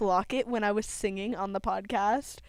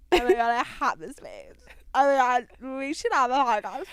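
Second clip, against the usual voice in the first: a hint of louder valley girl; 5 dB louder than usual. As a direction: play up the valley girl gush. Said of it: "I don't talk like a valley girl".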